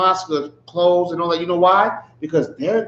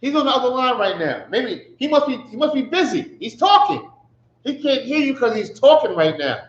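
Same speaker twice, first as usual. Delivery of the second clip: higher, sarcastic mock excuse; 4 semitones higher than usual. Preacher mocking the silent god, higher sarcastic voice. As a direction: make fun with fake sympathy. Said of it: "He's mocking their God".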